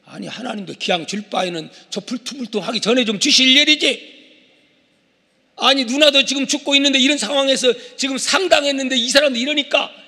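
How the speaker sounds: worked-up grumbling; Moses. Acted. Preacher playing Moses complaining to God, annoyed. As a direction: complain in a mounting huff. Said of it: "막 화가 막 난 거요".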